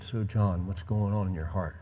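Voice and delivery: gentle, softened fatherly question; tender. Retold or imitated. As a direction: softly invite a son to open up. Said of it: "It, it was tender".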